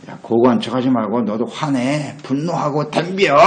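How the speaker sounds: slow, stretched-out goading; tempter's drawn-out dare; goading Satan. Acted. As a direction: provoke them into anger, rising at the end. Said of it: "이게 사탄의 전략이죠".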